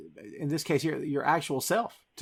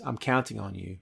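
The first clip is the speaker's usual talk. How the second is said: quiet earnest plea; 6 semitones lower, 6 dB quieter than usual. Retold or imitated. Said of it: "takes his hands and says".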